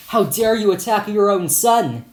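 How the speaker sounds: high, loud, indignant challenge; acted outraged yell. Friend to teacher who hurt her son, yelling. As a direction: yell in outrage, short of screaming. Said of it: "Another friend screamed at the teacher".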